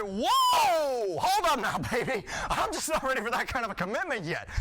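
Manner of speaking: loud, high "whoa", then easing down; alarmed protest. Acted. Boyfriend balking at commitment to Zelda, alarmed protest. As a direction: burst out in mock alarm at the proposal.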